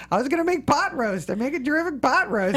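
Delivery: high, loud, hammed-up Jewish accent; Jewish accent like a famous singer's, loud and comic; bad Jewish accent. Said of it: "I cannot do a Jewish accent".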